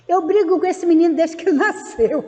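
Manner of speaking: real laugh inside an exclamation; amused exasperation. Real, not acted. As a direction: laugh through a fond complaint. Laughs about lifelong struggle with son.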